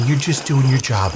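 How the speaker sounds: sugary, patronising reassurance; condescending sweet voice. Retold or imitated. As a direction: pat the cop on the head with it. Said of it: "No, honey".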